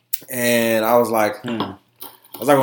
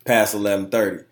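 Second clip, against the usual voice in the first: laughing imitation; 7 dB louder than usual. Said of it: "he was like".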